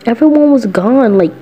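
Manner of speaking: put-on high, slow, sulky boyish whine; whiny Mikey. Mikey whines to listener about being left alone. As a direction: draw it out like a lonely kid.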